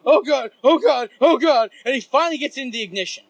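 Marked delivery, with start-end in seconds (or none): 0.1-1.7 high, loud repeated cries; panicking friend. Retold or imitated. Driver fumbling with car keys, retold frantic high cries. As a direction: imitate a frantic man losing it. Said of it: "And he's like, he's like".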